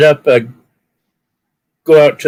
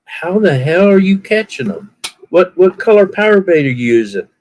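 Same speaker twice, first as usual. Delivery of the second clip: 1 incredulous guy; 8 semitones higher than usual. Retold or imitated. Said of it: "And he was like".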